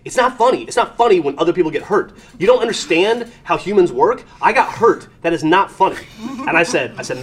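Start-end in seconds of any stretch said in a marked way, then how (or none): 0.1-6.0 put-on higher, louder scolding child; indignant kid. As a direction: lecture him like an offended little girl. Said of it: "And she goes".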